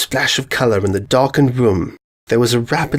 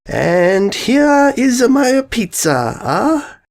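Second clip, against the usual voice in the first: higher, bubbly excited pony voice; Pinkie Pie voice; 12 semitones higher, much slower than usual. Acted. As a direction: bounce it up high like an eager party pony. Pinkie presents her pizza.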